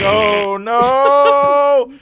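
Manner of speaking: rising, drawn-out loud dismay; mock horror. Hearing the rant turn racist, hammed-up horror. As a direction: wail it in comic dread.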